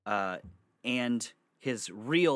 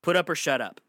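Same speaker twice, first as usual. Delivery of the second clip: louder, higher emphatic repeat; 5 semitones higher, 7 dB louder, faster than usual. Real, not acted. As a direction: punch it out harder, voice raised.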